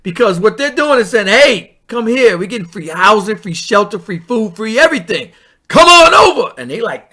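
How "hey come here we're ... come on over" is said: hammed-up come-on-over invite; lightly voiced official beckoning, big lift at the end; mock welcoming call. Voicing officials inviting migrants.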